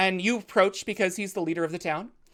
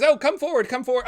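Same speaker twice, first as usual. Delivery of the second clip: put-on old priest; 6 semitones higher, 6 dB louder, faster than usual. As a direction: bless the crowd like an ancient holy man. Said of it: "and says".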